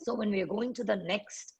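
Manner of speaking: soft, slightly cracking voice. Real, not acted. Teacher apologising mid-lecture for a slightly cracking voice. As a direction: apologise quietly as the voice gives out a little. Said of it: "my voice is cracking a little bit".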